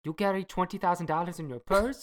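lightly put-on Italian accent; a hint of Italian lover. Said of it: "my Italian accent".

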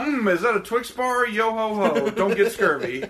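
a playful pirate patter; live pirate. Retold or imitated. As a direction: play the ride's pirate. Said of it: "He's just like".

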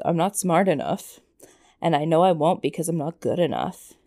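lightly voiced sulky teen; a hint of a moody teenager. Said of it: "I went to that teenager voice".

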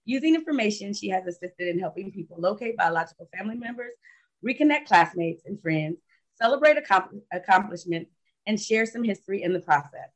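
reading out a guest's biography; measured, formal read-aloud introduction; prepared introduction read. Real, not acted. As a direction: read it like a written tribute.

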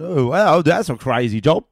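loud, high, hammed-up amazement; mock amazed crowd chat. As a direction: play up being wowed to stall for time. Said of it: "chatting to the crowd".

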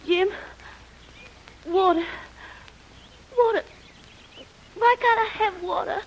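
high, feverish, tearful begging; delirious pleading. Acted. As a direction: beg for water, half out of your mind. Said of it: "delirious with shock and fever".

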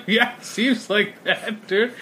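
slow, deadpan drawn-out reply; sarcastic resigned agreement; dry agreement. Retold or imitated. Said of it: "I'm like".

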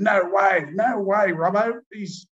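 hammed-up furious denial. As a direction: refuse to believe it, hot-headed. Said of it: "Teddy was furious".

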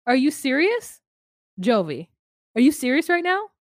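put-on loud disbelieving outburst, accent dropped; shocked protest at the baby idea; incredulous. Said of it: "Her accent goes away".

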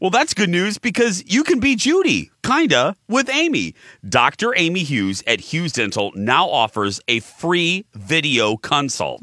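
upbeat, punchy commercial delivery; radio ad read. Real, not acted. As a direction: sell it like a radio spot. Reads a dental ad.

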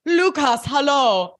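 mock bright greeting. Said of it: "She's like".

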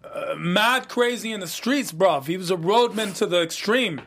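reviews the plot in a hammed-up London roadman accent; put-on London roadman accent. Cohost recaps the plot in a put-on London roadman accent. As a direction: keep up the London roadman slang. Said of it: "this accent you're giving me".

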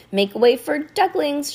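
high, loud, slow announcement; playful librarian. A narrator's reading. Librarian arranging paper ducks, playful call. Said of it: "and chuckled".

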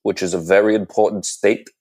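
lightly voiced senator oratory; a hint of a pompous senator, hand pointing; Bernie Sanders impression. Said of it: "Senator Sanders impression".

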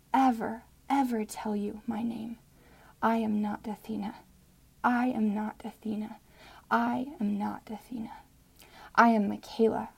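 dramatic spoken-word poem; poem reading. Acted. Listener reading her poem to the host, spoken-word style. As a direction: read the poem with feeling and rising resolve.

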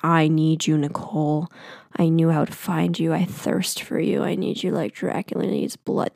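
low, soft parody of his poem; low, understated imitation of a lovesick poet; mock poem recital. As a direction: drop low and run through it mockingly. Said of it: "but it wasn't so, like".

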